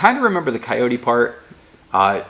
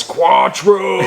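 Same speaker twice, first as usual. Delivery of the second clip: laughing yell, higher and louder; yelled name; 7 semitones higher, 5 dB louder than usual. Retold or imitated. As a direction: shout it as a car flashes by. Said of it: "he just yells".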